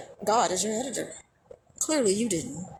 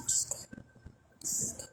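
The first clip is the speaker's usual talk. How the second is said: much higher squeaky brush-off; falsetto dismissal; 15 dB quieter than usual. Real, not acted. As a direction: flick them away in a falsetto.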